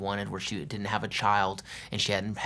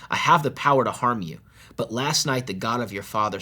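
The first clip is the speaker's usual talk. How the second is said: a touch of raised, aggrieved questioning; indignant accusation; 2 semitones higher than usual. Acted. Laban accuses Jacob of deceit, mildly indignant. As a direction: read Laban's complaint with mild heat.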